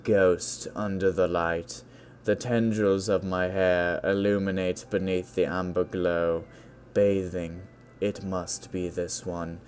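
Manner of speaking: funny poem-reading voice. Acted. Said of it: "I was reading it in a funny voice".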